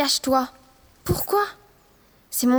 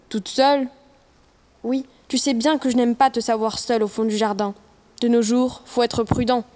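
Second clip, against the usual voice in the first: lightly voiced father, a bit deeper; girl playing her dad, voice lowered. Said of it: "prend sa voix la plus grave pour imiter celle de son père".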